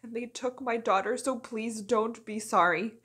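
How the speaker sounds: pleading, building out of a hush; restrained plea. Acted. Captive's monologue begins to plead.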